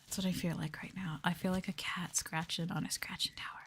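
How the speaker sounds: unvoiced close-mic whisper; ASMR whisper.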